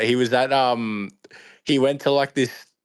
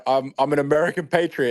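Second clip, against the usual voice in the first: mock American patriot; 5 semitones higher than usual. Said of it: "It's like".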